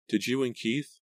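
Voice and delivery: high, tentative motherly question; hesitant mother. A narrator's reading. Mother prying about daughter and Keith, voice trailing off. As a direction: start asking, then let it hang. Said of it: "Her voice trailed off".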